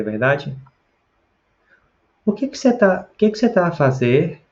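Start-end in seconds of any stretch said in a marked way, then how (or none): 2.3-4.4 high-pitched question in a Brazilian accent, European phrasing; Brazilian pronunciation. Shown as a demonstration. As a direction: say the Portugal phrase with Brazilian sounds. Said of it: "com a nossa pronúncia brasileira". (pronúncia brasileira, em tom agudo)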